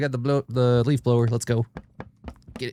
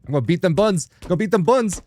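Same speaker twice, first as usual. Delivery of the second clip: loud, higher hyped shout; hyped battle cry; 7 semitones higher, 5 dB louder than usual. Real, not acted. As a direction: pump yourself up for the fight. Hyped to fight monster.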